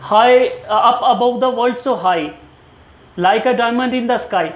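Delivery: slow, sing-song nursery rhyme recital; teacher reciting Twinkle Twinkle slowly for students; recited nursery rhyme. Shown as a demonstration. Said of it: "for example ले लें".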